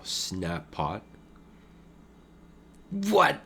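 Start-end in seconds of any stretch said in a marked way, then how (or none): 2.9-3.4 high-pitched, startled exclamation; shocked disbelief. Real, not acted. Poker player watching a shock set-over-set hand, astonished. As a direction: blurt it out high in real surprise.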